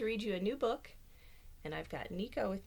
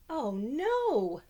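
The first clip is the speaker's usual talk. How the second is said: alarmed; 5 semitones higher, 7 dB louder than usual. Acted. Mouse sees the cheese.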